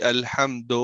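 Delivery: الحمد slowed, ending in a vague o; majhool mispronunciation. Shown as a demonstration. Teacher showing how people misread, majhool o on الحمد. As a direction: end الحمد on o in place of u. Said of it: "مجہول پڑھ لیتے ہیں".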